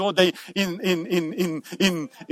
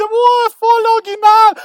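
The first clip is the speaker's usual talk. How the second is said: mocking crowd; 12 semitones higher, 6 dB louder, slower than usual. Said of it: "Und diese".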